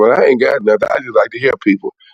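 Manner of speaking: ordinary delivery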